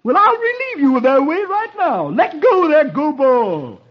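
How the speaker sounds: a crafty fox springing his trap; Brer Fox. Acted. Brer Fox voiced in story.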